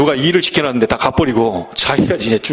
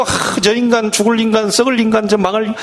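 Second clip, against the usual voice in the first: mock grumbling curse; 5 semitones higher than usual. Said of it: "현실 보고".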